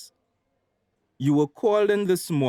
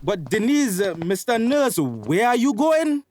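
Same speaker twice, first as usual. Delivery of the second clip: calling after them; 9 semitones higher, 4 dB louder than usual. Acted. Doctor calls after leaving family.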